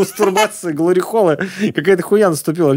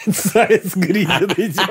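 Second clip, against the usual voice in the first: laughing; 2 semitones higher, much slower than usual. Real, not acted. Laughing at mask image.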